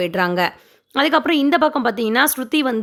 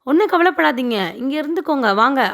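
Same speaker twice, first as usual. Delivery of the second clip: mock-sympathetic, haughty welcome; retold patronising pity; arrogant; 3 semitones higher than usual. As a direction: lightly act a condescending hostess, lifting the opening greeting. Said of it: "அவங்களுமே திமிரா தான் கூப்பிட்றாங்க".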